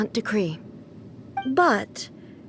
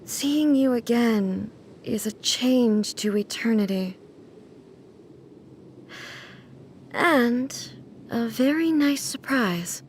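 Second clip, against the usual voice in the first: tender admission; slower than usual. Acted. Shogun admits she missed Miko.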